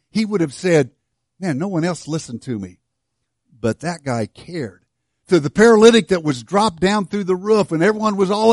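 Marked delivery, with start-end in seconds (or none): 1.4-4.8 tender testimony. Acted. Blind man's tender testimony.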